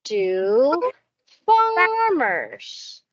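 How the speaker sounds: slow, stretched model sentence; slow modelled sentence. Shown as a demonstration. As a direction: speak it slowly for the child to repeat. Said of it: "you can say".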